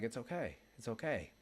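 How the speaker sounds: soft, tender retold comfort; gentle reassurance. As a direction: softly reassure someone close to tears. Comforting a woman who teared up.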